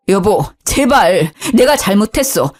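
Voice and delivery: pleading husband. Acted. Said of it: "무대포로 애원하더라고요".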